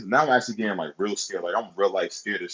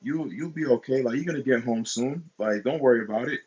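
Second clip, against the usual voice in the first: higher-pitched mock woman's voice, easing down at the end; lightly put-on reassuring lady, pitched up; imitating older woman; 5 semitones higher than usual. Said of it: "And she was like".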